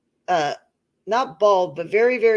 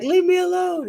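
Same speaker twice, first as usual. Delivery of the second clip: upset yell; 10 semitones higher than usual. Retold or imitated. To husband at the bathroom door, high upset yell. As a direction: push him away, voice cracking high.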